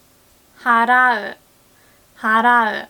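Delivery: 払う said slowly and clearly as a model; slow clear model word. Shown as a demonstration. Teacher modelling 払う slowly for students. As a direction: spell out 払う carefully for learners. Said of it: "we say".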